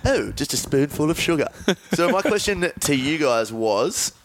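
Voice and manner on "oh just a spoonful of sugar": lightly mocked British nanny; a hint of prim British nanny parody; Mary Poppins. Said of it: "She just likes Mary Poppins".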